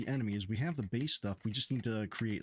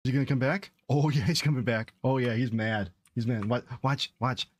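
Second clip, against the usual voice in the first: excited; 6 dB louder than usual. Real, not acted. Excited watching enemy return.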